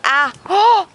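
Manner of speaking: sudden startled cry; startled gasp. Real, not acted. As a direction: gasp in alarm. Drops iPod.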